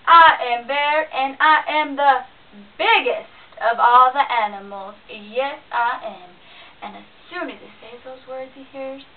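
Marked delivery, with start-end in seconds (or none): 0.1-6.3 big, loud, slow boastful bear voice; booming bear. A narrator's reading. Bear bragging to himself, booming loud. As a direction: puff up and boom like a proud bear.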